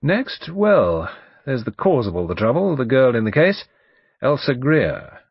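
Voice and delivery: loud, brisk barrister recalling names; blustering lawyer, chatty. Acted. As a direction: chat loudly like a self-assured old lawyer.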